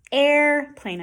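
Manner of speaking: "Airplane", strong first syllable, R fully sounded; good R. Shown as a demonstration. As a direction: hold the R before plane in "Airplane". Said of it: "That's a good R".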